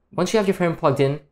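ordinary delivery

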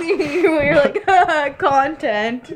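accusing through giggles; laughing. Real, not acted. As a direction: laugh while you accuse.

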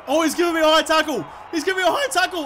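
quick, high-pitched complaint; indignant appeal. Real, not acted. Appealing against a tackle.

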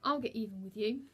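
loud, emphatic vow; enraged threat. A narrator's reading. Boy vowing revenge over the ruined racket, angry. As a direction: threaten her with force, a touch of rage. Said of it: "walked off in rage".

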